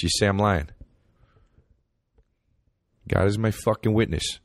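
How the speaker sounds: lightly voiced, slightly high New York guy bragging; hint of a New York hot dog fan; New York accent. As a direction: brag about hot dogs like a New Yorker. Keeps playing New York guy.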